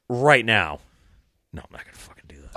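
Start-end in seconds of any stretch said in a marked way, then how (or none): 1.5-2.6 whispered, quick retraction; rapid under-the-breath mutter; quiet aside. Real, not acted. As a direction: drop to a fast whisper. Muttered aside retracting his promise.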